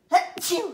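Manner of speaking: loud sudden sneeze; a real, explosive sneeze; sneezing. Real, not acted. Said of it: "bad allergies this morning".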